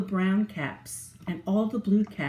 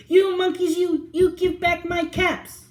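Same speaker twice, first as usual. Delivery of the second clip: high, loud furious yell; furious shout; 9 semitones higher, 5 dB louder than usual. Acted. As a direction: yell at them in full fury. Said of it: "He stamped both his feet and shouted".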